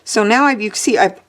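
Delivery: talking through hiccups; hiccupping mid-sentence. Real, not acted. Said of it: "I have the hiccups".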